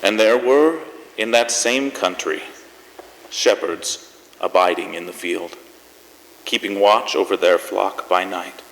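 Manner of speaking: solemn, measured reading of the nativity passage; scripture reading. Acted. Host reads scripture to close the show, solemn and measured. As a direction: read it like a Christmas Eve lesson. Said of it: "I have something here I'd like to read".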